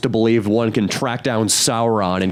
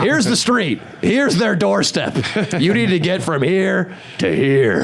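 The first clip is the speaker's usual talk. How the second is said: patronizing instructor; 5 semitones higher than usual. Retold or imitated. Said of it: "a guy with a whiteboard".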